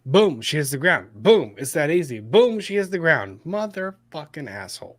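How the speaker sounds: real angry, punched repeats ending in a curse; aggressive. Real, not acted. Host furious at a careless shooter, aggressive. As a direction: hammer each boom, then curse under it. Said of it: "That was very aggressive".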